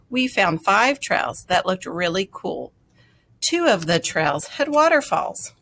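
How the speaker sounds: put-on lively read-aloud for young listeners; best storyteller voice. A narrator's reading. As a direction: tell it like the best story ever. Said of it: "in my best storyteller voice".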